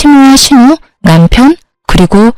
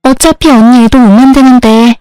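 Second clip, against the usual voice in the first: rude bratty sister-in-law; 2 semitones higher than usual. Acted. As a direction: toss each line off as if you're owed thanks. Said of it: "예전에 그 싸가지 없는 년으로 돌아갔더군요".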